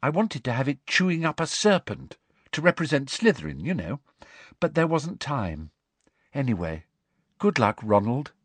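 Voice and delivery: lightly voiced dreamy girl; vague, airy chatter. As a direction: chat airily, drifting off at the end. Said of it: "a vague and dreamy voice".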